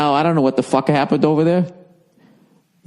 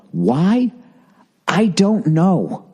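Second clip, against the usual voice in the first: fat man's shrug; 5 semitones higher, much slower than usual. Retold or imitated. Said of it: "And then he'd go".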